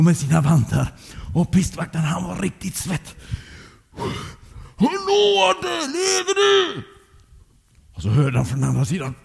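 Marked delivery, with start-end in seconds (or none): 4.8-6.8 high, drawn-out searching call. Acted. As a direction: call into the drift, stretching the last words. Calling to friend buried in snow. (högt, utdraget rop efter svar)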